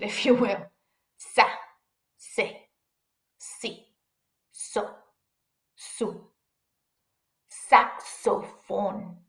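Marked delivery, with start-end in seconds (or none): 1.2-6.3 X sounded as an S with attitude: Sa, se, si, so, su. Shown as a demonstration. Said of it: "with a little more attitude". 7.7-9.2 slow "Saxophone" in Spanish, sak-so-fon; Spanish pronunciation. Shown as a demonstration. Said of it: "Saxophone in English".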